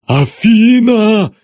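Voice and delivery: loud, high, drawn-out cry of her name; father bellowing her name; desperate yell. Acted. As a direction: roar after the fleeing daughter. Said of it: "завопил Москвин".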